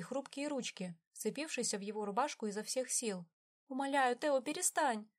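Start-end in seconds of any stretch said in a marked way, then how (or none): 3.7-5.1 выше, сквозь слёзы; взмолись сквозь плач; плача, умоляя. A narrator's reading. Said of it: "заплакала Виви". (Виви плача умоляет брата перестать)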